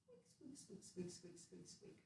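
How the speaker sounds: tiny mouse scurrying away; mouse squeaks. Acted. Stacy the mouse squeaking all the way home. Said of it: "And then Stacy went".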